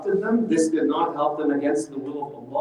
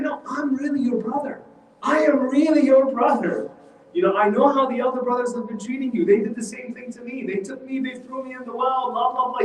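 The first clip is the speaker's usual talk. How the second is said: insistent, higher-pitched acted assurance; earnest reassurance; 7 semitones higher than usual. Yusuf reassures his younger brother, earnestly. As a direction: win the little brother's trust, insistently. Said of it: "to inspire confidence in him".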